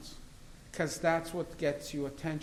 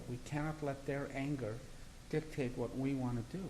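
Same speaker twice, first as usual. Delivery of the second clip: measured, even, unhurried; calm it down, no heat at all; retold calm reply; 4 dB quieter than usual. On live television, answering the victims' advocate, calmly and evenly. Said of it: "very calmly".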